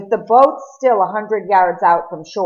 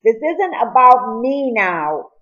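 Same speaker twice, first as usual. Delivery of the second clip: insisting; 5 semitones higher, 4 dB louder than usual. Acted. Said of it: "he insisted".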